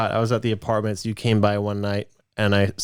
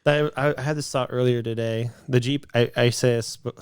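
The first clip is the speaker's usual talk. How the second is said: short of breath while talking; breathless, gasping between words; 2 semitones higher than usual. Real, not acted. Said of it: "gosh, I'm so out of breath".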